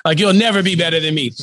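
mocking laugh into a gloating taunt. Gal Gadot's thief taunting Ryan Reynolds, laughing. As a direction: laugh at him, then gloat. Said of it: "she's like".

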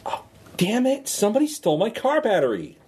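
shocked and annoyed, in character; frustrated outburst. Acted. Character finds battery stolen.

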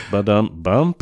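spoken drum sting, dropped after a bad joke; mock rimshot. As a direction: sound out a comic drum fill.

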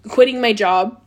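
a burp through the words; words pushed out on a burp. Real, not acted. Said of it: "excuse me, a little burp".

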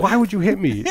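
fake-wounded squeak; hammed-up victim voice; mock whine. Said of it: "She's like".

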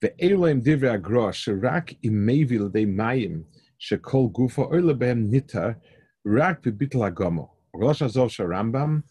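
rapid text reading. Acted. Reads Hebrew source rapidly.

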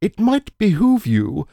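high, slow goofy Shaggy voice; Shaggy impression. Friend parodying Lillard's line as Shaggy, high goofy voice. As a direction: drawl it like Shaggy begging for a snack. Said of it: "my version of that was".

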